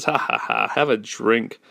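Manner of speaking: mock villain laugh into a taunt; hammed-up monster ha-ha-ha; gloating monster. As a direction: taunt the victim like a cartoon villain. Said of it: "starts to drown him. And he says".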